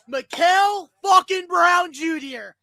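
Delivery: drawn-out hyped name call; hyped shout of the player's name; excited shout. Real, not acted. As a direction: announce him like a hero. Announcing the pick excitedly.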